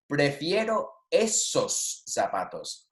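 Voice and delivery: slow Spanish example for learners; slow model reading. Shown as a demonstration. Teacher reading the shoe example to students, slow model reading. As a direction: read it out slowly, word by word.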